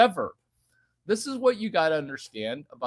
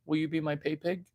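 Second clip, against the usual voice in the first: softer, teasing repeat; 8 dB quieter, faster than usual. Acted. Repeat softly.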